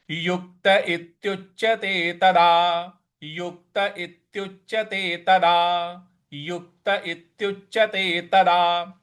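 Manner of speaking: युक्त इत्युच्यते तदा each word clear; careful recitation. Shown as a demonstration. Teacher drilling the class on the phrase. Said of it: "इस प्रकार से इसको बोलना है".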